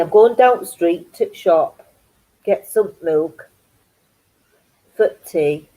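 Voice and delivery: lightly imitated Yorkshire speech; Yorkshire take, without any Geordie twang; Yorkshire accent. Shown as a demonstration. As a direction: say it in everyday Yorkshire dialect. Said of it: "funny experiences with the Yorkshire language".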